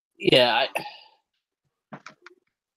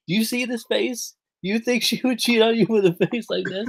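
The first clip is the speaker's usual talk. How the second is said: higher-pitched, lightly hammed-up wrestler pleading; mock Tommy Dreamer; 8 semitones higher than usual. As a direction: play the offended wrestler, half-joking. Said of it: "he was like".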